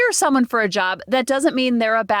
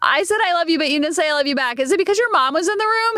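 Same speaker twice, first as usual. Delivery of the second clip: put-on Valley girl; 5 semitones higher, faster than usual. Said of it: "I don't know if I sound like a Valley girl".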